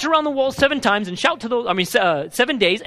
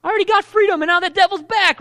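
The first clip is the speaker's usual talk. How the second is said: frustrated believer; 7 semitones higher than usual. Retold or imitated. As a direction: whine it as if the devil came back. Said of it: "you're saying".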